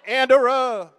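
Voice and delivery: loud, stuck repeating Andera like a stuttering preacher; mock the stammering pastor calling out Andera. Comedian imitates stuttering pastor at baptism, loud stuck repeat. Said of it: "he stuttered".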